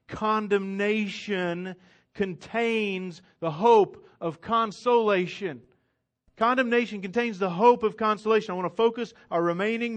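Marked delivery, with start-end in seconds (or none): 0.1-5.6 slow, weighty statement of the theme; drawn-out key sentence; slow and deliberate. Shown as a demonstration. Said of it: "if you don't hear anything else". 6.4-8.5 faster repeat of the theme; brisk repeat of the key line; quick restatement. Shown as a demonstration. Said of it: "if you don't hear anything else".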